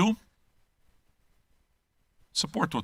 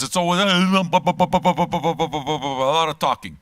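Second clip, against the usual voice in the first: drawn-out mock complaint; 3 semitones higher, 4 dB louder, much slower than usual. Real, not acted. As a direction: stretch every word out very slowly, mocking. Mocking the French for talking.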